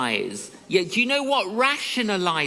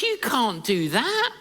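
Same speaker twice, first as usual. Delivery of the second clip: laughing refusal; 4 semitones higher, slower than usual. Retold or imitated. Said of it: "she started laughing".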